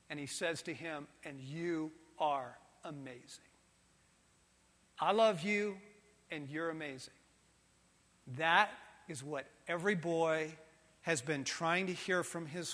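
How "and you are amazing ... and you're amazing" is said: tender. Acted. God's tender words continued.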